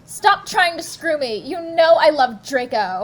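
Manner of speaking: loud, overacted fanfic line; hammed-up shout. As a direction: shout it like a melodrama. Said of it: "I shouted".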